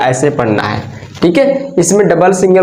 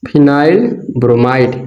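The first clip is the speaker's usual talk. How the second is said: slow, split name; 3 semitones lower, much slower than usual. Shown as a demonstration. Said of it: "ये क्या हो गया?".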